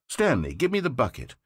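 a mock obsessive building toward a threat; mounting demand. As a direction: crank up the grabbing demand line by line. Fake demand for the bucket.

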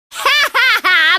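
slow hearty ha ha ha; cackling glee; gleeful laugh. Acted. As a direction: laugh with delight at the wreckage. Gleeful laughter after smash.

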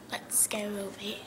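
whisper. Real, not acted. Sneaking closer to the frog.

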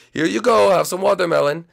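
high, loud serving voice; servant presenting food. Acted. Chef serving watermelon to the date, in high servant voice. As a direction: announce the dish up high.

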